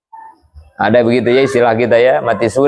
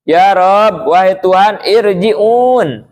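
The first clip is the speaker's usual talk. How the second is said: raised, pleading cry of a dying sinner; dying man begging God; 5 semitones higher, slower than usual. Acted. Dying sinner crying to God for another chance, pleading. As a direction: beg to be sent back, voice lifted higher. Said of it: "mereka teriak kepada Allah".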